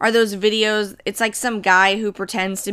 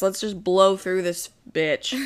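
nervous laughter; 2 semitones lower, 4 dB quieter than usual. Real, not acted. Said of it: "Why am I laughing so hard?".

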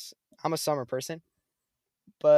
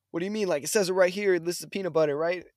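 retold indignant customer, raised pitch; giving attitude; 4 semitones higher, 3 dB louder than usual. Customer disputing the receipt with the cashier, mild attitude. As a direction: argue back with mild mock attitude. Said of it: "he's giving so much attitude".

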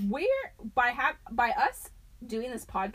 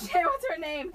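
gong-like laugh; 9 semitones higher, 4 dB louder than usual. Real, not acted. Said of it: "You sounded like a gong".

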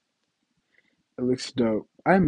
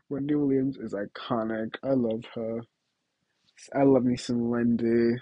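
usual speaking voice

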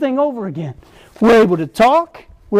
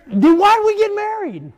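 retold snappy comeback; 10 semitones higher than usual. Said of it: "That's what I told her".

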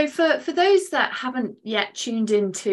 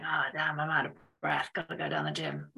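quiet; 5 semitones lower, 10 dB quieter than usual. Retold or imitated. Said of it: "It's like".

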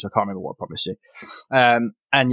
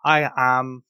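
higher, fussy healer voice; Vandy the priestess; 6 semitones higher than usual. Acted. Priestess to the concussed hero, higher fussy voice. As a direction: reassure the patient kindly.

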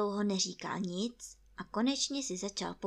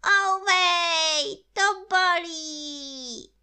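high, loud, long-drawn yowl; cry of pain; 10 semitones higher, 11 dB louder, much slower than usual. A narrator's reading. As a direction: cry out as if being pulled too hard. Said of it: "vykřikl Pů".

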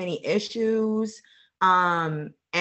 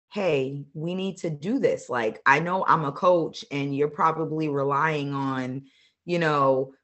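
breaking up on a bad line; fading in through static; 3 semitones lower, 3 dB quieter than usual. Real, not acted. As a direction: voice dropping out, low and faint. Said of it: "I can't hear you".

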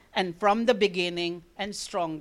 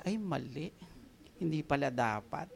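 soft, lower, sheepish; sheepish realization; 7 semitones lower, 9 dB quieter than usual. Retold or imitated. Parent realizing they snapped at family, soft sheepish. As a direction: quietly admit the mistake. Realizing the outburst was wrong.

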